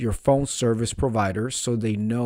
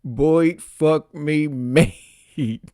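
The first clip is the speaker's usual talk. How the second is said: louder; 4 semitones higher, 4 dB louder, much slower than usual. Retold or imitated. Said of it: "Can you just speak up".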